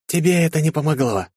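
high, haughty retort. A narrator's reading. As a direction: sneer it down at him. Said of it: "надменно сказала Энни".

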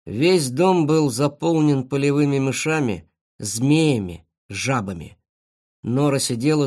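ordinary delivery, nothing marked

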